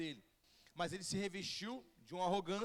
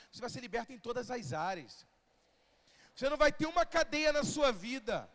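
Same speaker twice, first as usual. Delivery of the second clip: building into a loud prophetic declaration; 6 dB louder than usual. Shown as a demonstration. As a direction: proclaim it like a prophet, rising at the end. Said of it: "com voz de profeta".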